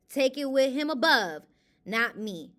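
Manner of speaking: daring the critics to argue; defiant. Real, not acted.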